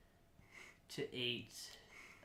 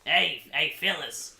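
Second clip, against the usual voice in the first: smoker voice. Retold or imitated. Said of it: "E T sounds like a smoker".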